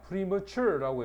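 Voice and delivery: premature를 천천히, 뒤 음절에 힘주어; premature 강세 시연. Shown as a demonstration. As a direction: premature 강세를 뒤쪽에 두고 또박또박. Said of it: "강세는 요래 됩니다". (premature 뒤쪽에 강세)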